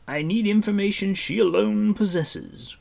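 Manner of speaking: high, loud, pressing explanation; urgent. A narrator's reading. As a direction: stress the urgency forcefully. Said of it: "Gwydion said quickly".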